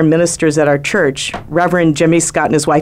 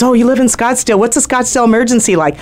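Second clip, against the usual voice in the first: mock Scottsdale local; 6 semitones higher, faster than usual. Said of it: "the lifestyle where someone goes".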